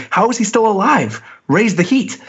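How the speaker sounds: villain voice. Retold or imitated.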